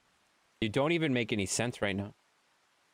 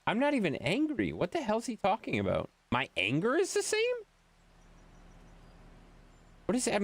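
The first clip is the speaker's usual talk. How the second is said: indignant disbelief; 9 semitones higher than usual. Real, not acted. Indignant at the comparison.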